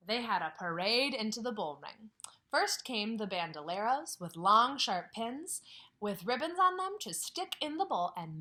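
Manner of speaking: lively read-aloud voice; story narration. A narrator's reading. Teacher reading a picture book to her class, lively.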